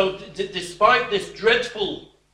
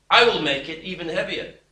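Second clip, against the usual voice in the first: "I will make it even heavier" said louder, with weight on "I"; harsh threat; 3 dB louder than usual. Acted. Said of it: "answered the people harshly".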